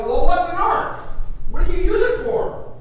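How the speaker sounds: high, loud scoffing questions; high incredulous mocking neighbor. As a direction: jeer at him in disbelief.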